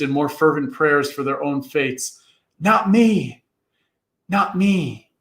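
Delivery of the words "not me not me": begging. A narrator's reading. Boys begging.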